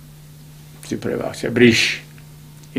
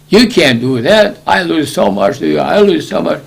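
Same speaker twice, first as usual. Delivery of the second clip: higher and louder, an upset complaint; loud objection; 4 semitones higher, 4 dB louder than usual. Retold or imitated. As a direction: object loudly about your losses. Creditor objecting in court.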